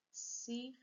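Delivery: circuito split cir, cui, to with pauses; syllable by syllable. Shown as a demonstration. Teacher showing three syllables, circuito broken apart. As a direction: count out three parts of circuito. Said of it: "Três sílabas".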